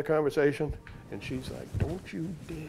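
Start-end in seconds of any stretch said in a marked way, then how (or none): 1.8-2.7 quiet, clipped warning then a laugh; mock stern warning. Wife warning him off the case, mock stern. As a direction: imitate the wife forbidding it. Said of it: "She's mad".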